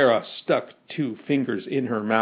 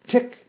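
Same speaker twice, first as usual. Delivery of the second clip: high, short spoken ticks; mechanical ticking; 8 semitones higher than usual. A narrator's reading. Metal man ticks between phrases, high mechanical ticking. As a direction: tick like clockwork, high and evenly spaced. Metal man's clockwork tick.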